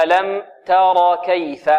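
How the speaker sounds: drawn-out تر with light open "ta" and heavy ra; slowly, plain "a" in تر, then light كيف; medium fatha. Shown as a demonstration. Teacher says "like this", slow open "a" in تر. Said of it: "هكذا".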